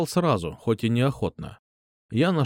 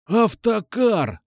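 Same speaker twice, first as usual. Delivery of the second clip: cutting retort; 9 semitones higher, much slower than usual. Acted. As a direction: chop him off sharply. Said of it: "обрубил его Кукуша".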